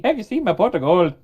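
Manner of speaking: put-on playful stage Irish accent; leprechaun-style Irish accent. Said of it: "Irish accent".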